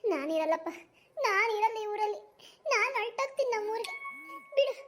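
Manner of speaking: mother's tearful lament; hammed-up weepy complaining; acted crying. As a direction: wail in despair over lost honour. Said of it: "ನೀ ಸುಮ್ನೆ ಅಳಬೇಡ ನೀನು".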